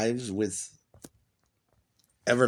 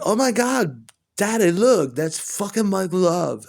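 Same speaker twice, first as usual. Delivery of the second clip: much higher and louder, breathless squeal; starstruck girlfriend; 8 semitones higher, 6 dB louder, slower than usual. Retold or imitated. Girlfriend telling her dad it's a famous singer, shrieking. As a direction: shriek it like a fan spotting her idol. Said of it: "and she's like".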